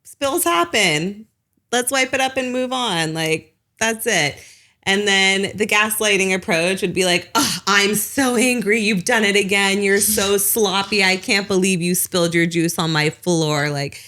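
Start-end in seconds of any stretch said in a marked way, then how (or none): 0.0-4.4 calm, no-fuss move on from the spill; matter-of-fact parent. Retold or imitated. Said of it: "The non-gentle parenting approach might be like". 7.3-13.7 mild mock angry parent scolding a child; understated blaming rant at the child.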